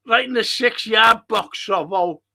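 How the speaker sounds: shouted instruction at the pitch; loud urging call. Real, not acted. Fan urging striker toward the six-yard box, loud. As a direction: bark it at the player, loud. Urging player during live match.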